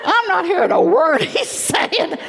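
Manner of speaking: high, loud, giggling through the words; laughing. Retold or imitated. Telling the Lord she isn't listening, laughing. Laughing at her own inner dialogue.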